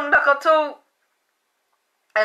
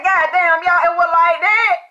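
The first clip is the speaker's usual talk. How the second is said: mild amazed exclamation; 5 semitones higher, 4 dB louder than usual. Retold or imitated. Retold exclamation to viewers.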